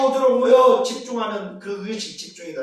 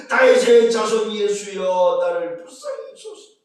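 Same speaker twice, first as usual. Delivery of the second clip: loud cry; 5 dB louder than usual. Acted. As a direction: shout it louder, begging. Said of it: "더 크게 소리 지릅니다". (더 크게 외치는 바디매오의 부르짖음)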